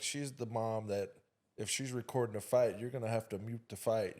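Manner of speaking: ordinary delivery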